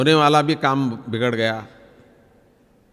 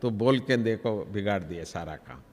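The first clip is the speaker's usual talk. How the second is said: intellect's gentle scolding; 4 semitones lower, 4 dB quieter than usual. Retold or imitated. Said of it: "बुद्धि बाद में समझाता है".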